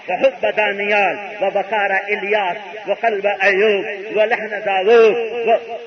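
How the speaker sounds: measured, chant-like Arabic recital; Arabic recitation. Acted. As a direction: intone the list of prophets' virtues. Recites long Arabic passage. (عربی میں ٹھہر ٹھہر کر تلاوت)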